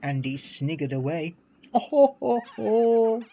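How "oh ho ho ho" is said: loud, high guffaw. A narrator's reading. Trucks guffawing at the gossip about Gordon. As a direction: roar with laughter. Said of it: "guffawed the trucks".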